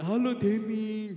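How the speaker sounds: high, drawn-out sweet greeting; mock the suddenly mellow classmate, slowly; imitated sudden calm. Former bully greeting Denny the next day, imitated calm sweetness. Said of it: "besoknya tiba-tiba kalem orangnya".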